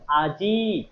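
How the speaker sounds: আজি with the final ই drawn out; উচ্চারণ দেখানো. Shown as a demonstration. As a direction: sound out আজি, holding its last ই long. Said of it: "আপনি মুখে উচ্চারণ করেন". (আজি-র শেষের ই টেনে স্পষ্ট উচ্চারণ)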